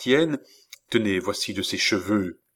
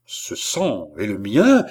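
slow frantic cry; distraught exclamation; exclaiming; 3 semitones lower, 3 dB louder, slower than usual. Acted. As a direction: cry it out wild with dismay. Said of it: "s'écria Balsamo, ivre d'égarement".

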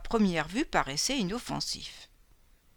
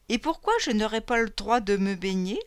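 haughty lady. Acted. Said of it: "d'un ton très grande dame du château".

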